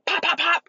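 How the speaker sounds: high, quick popping noises; imitated smacks. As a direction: rattle off high pops. Imitates popping on child's hands.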